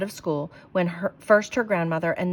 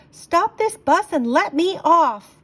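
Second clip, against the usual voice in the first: high, loud and slow, demanding the bus stop; shouted; 10 semitones higher, 6 dB louder, slower than usual. Acted. Marcy on the driverless bus, shouting to be let off. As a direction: yell it out in alarm, much higher and louder. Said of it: "I shouted".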